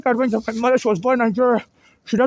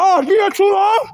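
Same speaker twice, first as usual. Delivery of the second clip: loud, raised retort to the guard; indignant shout; 4 semitones higher, 4 dB louder than usual. Real, not acted. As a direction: fire the question back, real anger. Guard says she stayed too long.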